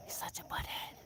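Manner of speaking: soft whispered grumble; whispered aside. Real, not acted. Grumbling about the rooster, whispered. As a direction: mutter it under your breath.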